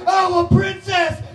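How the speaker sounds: very high, slow princess voice; fairy-tale princess. Pretend. Princess spotting the butterfly, very high and sweet. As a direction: coo it sweetly.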